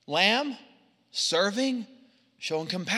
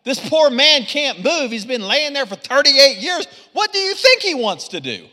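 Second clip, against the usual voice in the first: rising, louder and higher in mock disbelief; incredulous; 4 semitones higher, 6 dB louder than usual. Preacher mocking a listener's shocked objection to Jesus. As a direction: play the exasperated onlooker, half joking. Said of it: "you're kinda like".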